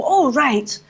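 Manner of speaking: brisk editor deciding the day's angle; a lightly voiced newspaper editor. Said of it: "it's a very good newspaper editor voice".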